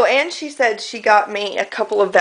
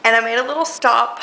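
out of breath; 2 semitones higher, faster than usual. Real, not acted. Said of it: "really out of breath when I come up their stairs".

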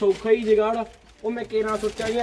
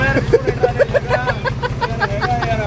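calling out; 11 semitones higher, 5 dB louder than usual. Real, not acted. Calling out excitedly.

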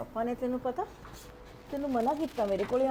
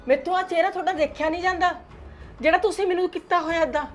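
higher, louder desperate begging; mother pleading through tears, climbing higher; tearful pleading; 5 semitones higher, 4 dB louder than usual. Acted. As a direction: beg her son to believe her remorse. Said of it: "ਤੁਹਾਡੇ ਹੰਝੂਆਂ ਦਾ ਕੋਈ ਅਸਰ ਨਹੀਂ".

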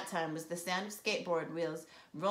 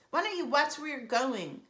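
loud, high angry shout; angry yell; 6 semitones higher, 4 dB louder than usual. Acted. Angry sister shouting at careless brother. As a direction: yell at him to watch out. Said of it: "I yelled".

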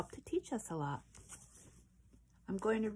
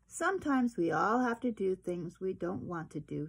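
gentle. Acted. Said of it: "she told him gently".

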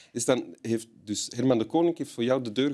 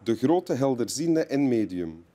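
advert read-out; 2 semitones higher than usual. Acted. Reads out a clairvoyant's advert.

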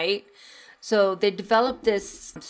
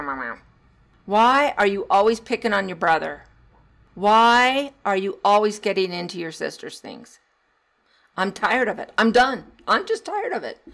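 fed-up scolding; 5 dB louder than usual. Retold or imitated. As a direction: nag the kid, fed up. Fed-up parent scolding voiced.

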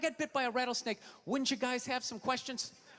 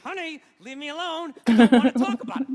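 through my teeth; 12 dB louder than usual. Retold or imitated. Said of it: "Talking through my teeth".

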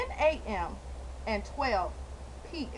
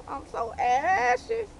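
slow; 5 semitones higher, much slower than usual. Real, not acted. Complaining, drawn out.

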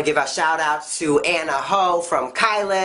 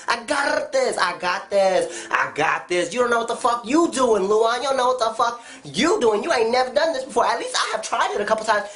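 mock defensive; 5 semitones higher than usual. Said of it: "And they'll be like".

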